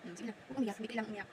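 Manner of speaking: quiet reassurance; gentle soothing. Real, not acted. Mother soothing a crying child.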